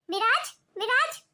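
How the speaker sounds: slow, drawn-out name call. Acted. Mother calling her son to intervene, calling out. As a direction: summon him from another room. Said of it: "क्यों इतनी तेज तेज आवाजें लगा रही है".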